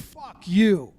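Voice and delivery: mildly angry, drawn on YOU; retold angry curse. Orioles manager to the Yankees pitcher, mildly angry. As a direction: imitate an upset player cursing. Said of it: "with a lot of na".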